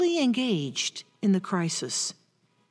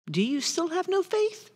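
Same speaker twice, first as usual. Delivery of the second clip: quiet question; 6 semitones higher, 6 dB quieter than usual. Acted. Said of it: "as Jesus says the question".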